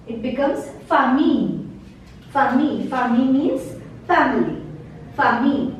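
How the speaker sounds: famille said fa-mee; ILLE as ee. Shown as a demonstration. Teacher applying the ILLE rule to famille. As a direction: end famille on a long ee. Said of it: "same rule applies here".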